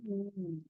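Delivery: "U" held long, softly; stressed syllable. Shown as a demonstration. Teacher naming the strongest syllable, long held "U". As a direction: draw out the vowel "U". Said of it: "Sílaba mais forte é o".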